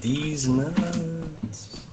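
hollow spooky ghost voice. Pretend. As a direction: moan it like a ghost. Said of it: "Why did you say it like a ghost?".

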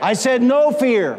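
psalm proclaimed in a sustained preacher's cadence; forceful preaching. Real, not acted. Preacher expounding the psalm to congregation, forceful proclamation. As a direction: proclaim the verse to the whole room.

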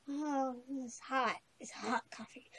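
croaky voice. Real, not acted. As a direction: let the croaky voice give out to a whisper. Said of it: "My voice is going croaky again".

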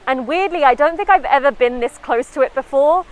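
muffled mask-covered speech; talking behind cloth mask; through a face mask. Real, not acted. Seen 0: White face mask covers mouth and nose throughout; no mask in R frames.

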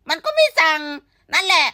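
blurting the verdict loudly; emphatic. Real, not acted. Emphatic punchline about boycotting.

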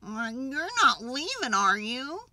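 small animal's anxious question; Porcupine. A narrator's reading. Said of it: "asked Porcupine".

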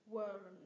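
"World" with the tongue curled up for the L. Shown as a demonstration. Teacher showing tongue position, "World" with clear L. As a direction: hold the L in "World" before the D. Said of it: "cong lưỡi cái âm L lên".

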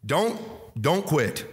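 "Don't" hit hard, then "don't quit" pressed home; for emphasis. Shown as a demonstration. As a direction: lean on each "Don't" with a pause between. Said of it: "This is just for emphasis".

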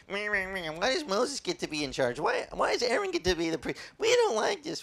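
whiny grumbling. Retold or imitated. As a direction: pout it out like a sulky crowd. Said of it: "and they were like".

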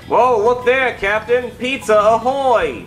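pirate voice. Acted. Pirate ad character calling out.

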